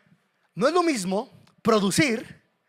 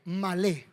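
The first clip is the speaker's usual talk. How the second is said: "malé" stressed on the last syllable; stress on final E. Shown as a demonstration. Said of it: "con acento en la E".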